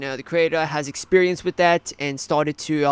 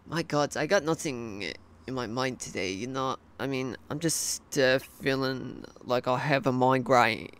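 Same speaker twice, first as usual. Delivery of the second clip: soft, tired Australian accent; 2 semitones lower, 6 dB quieter than usual. Real, not acted. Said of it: "what did I say about using my Australian accent".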